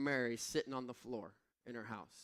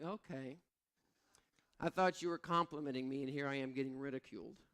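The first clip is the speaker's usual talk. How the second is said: deflated; faster than usual. Retold or imitated. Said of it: "I'm like".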